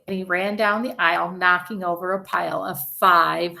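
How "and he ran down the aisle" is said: ordinary delivery, nothing marked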